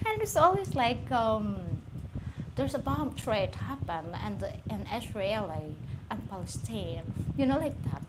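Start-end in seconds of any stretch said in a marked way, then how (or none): 2.5-7.0 lightly mimicked British news delivery; mock British newsreader accent, even and restrained; BBC reporter accent. Speaker as BBC reporter on a bomb threat, British accent. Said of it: "Like that accent".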